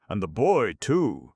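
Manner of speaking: a hint of a scheming old man; sly old Fagin. A narrator's reading. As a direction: coax her like a crafty old fence. Fagin probing Nancy.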